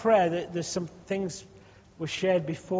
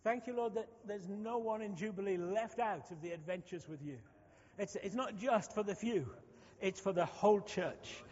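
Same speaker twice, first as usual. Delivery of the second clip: near-whispered thanks, much softer; hushed prayer; 3 semitones higher, 10 dB quieter than usual. Real, not acted. Pastor praying quietly over the whole church, hushed. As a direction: drop to an intimate hush before God.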